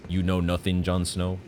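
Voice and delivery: put-on rough stab at the "Jon Snow" line accent; attempted accent imitation. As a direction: try the accent, not quite getting it. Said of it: "I can never do that accent".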